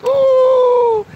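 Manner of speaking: very high, loud squeal of delight; excited high-pitched ooh. Real, not acted. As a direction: squeal at the smile. Reacting to kid's smile.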